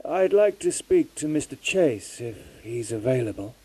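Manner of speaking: caller pushing a little over a bad line. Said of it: "raising his voice a little".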